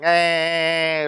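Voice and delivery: a nasty, provocative fake cry; mock ugly crying. Lecturer mimics a crying kid in a joke, mock ugly cry. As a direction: mimic a kid's ugly cry, half-hearted. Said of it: "he is crying in an ugly, provocative".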